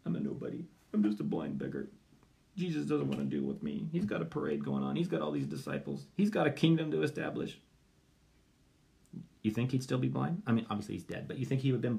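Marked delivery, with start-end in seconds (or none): 0.0-7.6 dejected beggar. Retold or imitated.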